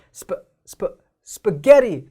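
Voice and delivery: 스파 as short "spuh", between 어 and 으; short "spuh" twice, then 스파게티 with loud 게; in-between vowel. Shown as a demonstration. Teacher demonstrates the middle sound, "spuh-GE-ri". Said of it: "그 중간 소리로 해서".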